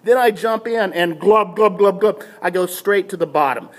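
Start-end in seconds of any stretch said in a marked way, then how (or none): 1.2-2.2 comic bubbling glub sounds; imitated sinking glubs.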